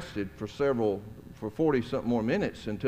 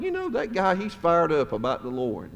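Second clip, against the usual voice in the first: admiring thought; 5 semitones higher than usual. Retold or imitated. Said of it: "And I was like".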